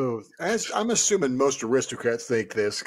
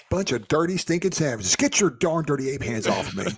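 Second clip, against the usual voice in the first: mock bigot. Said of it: "Wrong story".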